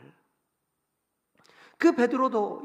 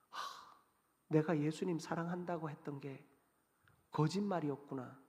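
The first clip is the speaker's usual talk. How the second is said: despairing sigh; 6 semitones lower, 8 dB quieter than usual. Acted. Peter's inner despairing realization.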